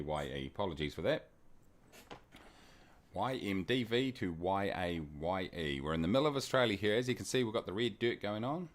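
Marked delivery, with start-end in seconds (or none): 3.1-5.8 spelling it out slowly, letter by letter; careful, unhurried readback for listeners. Real, not acted. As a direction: give each code letter room. Repeats airport codes slowly for viewers.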